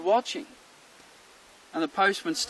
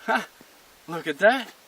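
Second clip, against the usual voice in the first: gloating with punched words; lightly acted smug dog; self-satisfied dog; 5 dB louder than usual. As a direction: boast as a dog pleased with its bark. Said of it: "And the dog goes".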